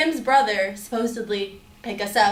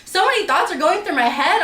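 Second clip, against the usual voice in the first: higher and louder, still upset; worked-up retelling; 4 semitones higher, 4 dB louder, slower than usual. Real, not acted. Telling viewers about the night, in higher, louder, upset tones. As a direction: relive the panic, voice raised. Recounting panic and anger.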